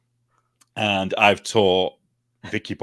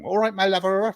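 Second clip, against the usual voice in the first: put-on a light sing-song Bristol accent, higher; 9 semitones higher than usual. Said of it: "That's what they say".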